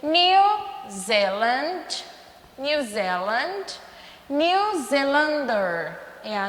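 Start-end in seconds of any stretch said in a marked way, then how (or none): 0.0-3.8 New Zealand as /niu zeeland/, New hit first; English model. Shown as a demonstration. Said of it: "Como é que eu falo Nova Zelândia em inglês?".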